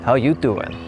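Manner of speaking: light Joey Tribbiani flirty line; a hint of Joey's charm; teacher nods to Joey's famous greeting; Joey impression. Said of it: "That's the classic, uh, Joey line".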